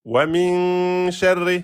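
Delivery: slow chanted "Min sharri" with a long held min; Quran recitation. Shown as a demonstration. Teacher chanting verse slowly for students. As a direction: intone it like tajwid recitation. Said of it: "C'est la même règle".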